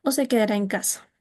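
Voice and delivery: "¿O se quedará en casa?" dropping down to "casa"; falling second part. Shown as a demonstration. Teacher showing the second half of an alternative question falling. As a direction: let "casa" fall.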